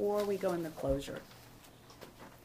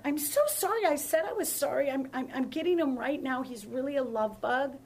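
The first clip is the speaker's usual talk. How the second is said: retold pleading apology; 5 semitones higher, 4 dB louder than usual. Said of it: "And I said that".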